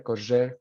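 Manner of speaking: correr said korezher, rr like zh; assibilated R. Shown as a demonstration. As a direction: buzz the rr in correr. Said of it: "you say correr".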